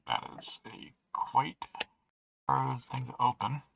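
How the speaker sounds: talking through a face mask; muffled voice behind a mask. Real, not acted. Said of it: "pardon the muffled voice".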